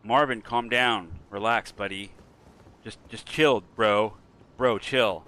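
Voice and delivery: loud, slow hammed-up soothing; mock calm-down. To Marvin holding a knife, loud mock soothing. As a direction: pretend to talk a friend down, loudly.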